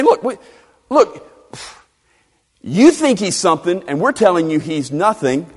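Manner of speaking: acted self-important lecturing; mock-pompous dismissal; dripping with ego. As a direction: talk down to them like a proud Pharisee. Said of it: "this just drips with ego".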